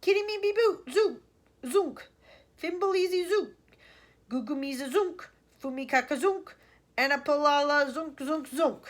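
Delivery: loud, high, fearsome yelling; wild fearsome yell. A narrator's reading. Wonka yelling fearsome nonsense at the aliens. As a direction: yell it like a war cry. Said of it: "in a wild and fearsome voice he yelled out".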